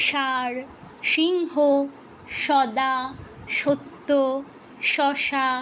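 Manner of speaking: "ষাঁড়, সিংহ, সদা, সত্য, শশা" all with the same sh; word-by-word list, "সদা" and "সত্য" said with sh; Bengali merged sibilants. Shown as a demonstration. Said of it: "এই তিনটা আমরা বাংলায় সেম উচ্চারণ করি".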